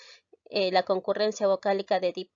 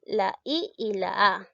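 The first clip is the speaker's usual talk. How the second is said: slow vowel naming. Shown as a demonstration. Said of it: "Observemos ahora".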